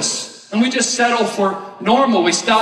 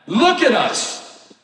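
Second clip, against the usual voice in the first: the command slowed right down; slow, stressed command; 3 semitones higher, much slower than usual. Shown as a demonstration. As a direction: LOOK stressed, words drawn out slowly.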